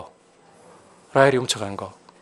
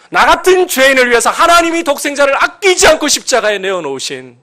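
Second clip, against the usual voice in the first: very high, loud sermon climax; impassioned, shouted preaching; full-force preaching; 11 semitones higher, 7 dB louder than usual. Real, not acted. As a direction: cry it out with fervent conviction.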